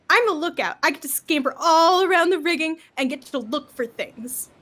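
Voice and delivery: lightly voiced proud little boy; little boy, boosted. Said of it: "gets a little bit of, uh, a boost and says".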